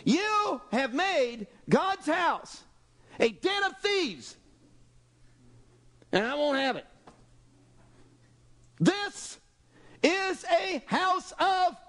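high, slow, ringing declaration; preaching Jesus. Acted. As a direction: proclaim it from the temple steps. Jesus confronting the money changers.

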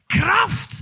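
"Kraft" high and loud, rising; shouted Kraft. Acted. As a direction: hurl the word at the crowd. Preacher shouts key word. ("Kraft" laut gerufen)

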